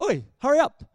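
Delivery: mock yell at a flagging runner; crew yelling. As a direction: bark it like a pushy coach.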